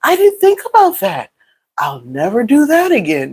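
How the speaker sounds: mock apology. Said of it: "Nobody's gonna be like".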